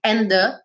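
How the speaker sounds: AND THE run together as en-the; merged "and the"; linked consonants. Shown as a demonstration. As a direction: join "and the" without releasing the D. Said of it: "eu junto".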